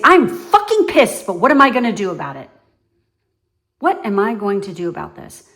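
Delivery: a burst of mock anger, then settling down fast; frustrated but resolved. Coaching viewers to own their anger, mock pissed outburst. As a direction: vent the anger, then get practical.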